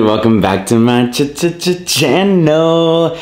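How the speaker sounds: slow, stuttered ch-ch-ch catchphrase; stutter effect. Acted. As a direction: stretch it out like a DJ scratch.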